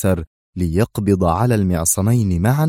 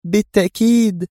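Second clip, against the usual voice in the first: calmly gleeful; 11 semitones higher than usual. A narrator's reading. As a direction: confirm it with composed glee. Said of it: "أجابته في هدوء جذل". (بهدوء جذل)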